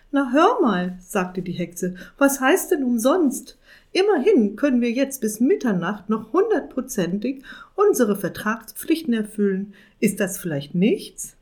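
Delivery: high, loud witch voice scolding her partner; indignant witch. Acted. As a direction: huff at him like a cross old witch.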